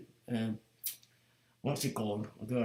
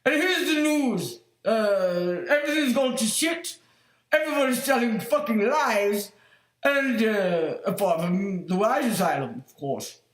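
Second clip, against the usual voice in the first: mock newsreader; 4 semitones higher than usual. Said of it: "So I went home and go like".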